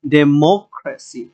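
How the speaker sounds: ডেমোক্রেসি with মো leaned on; teacher stressing the second syllable, মো, in ডেমোক্রেসি. Shown as a demonstration. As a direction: punch মো in ডেমোক্রেসি, then fall away. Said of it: "এই তিনে এসে এখানে জোর হবে".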